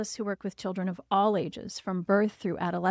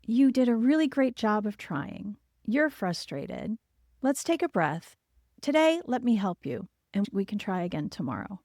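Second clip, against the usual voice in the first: reassuring parent demo. Shown as a demonstration. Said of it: "you can say".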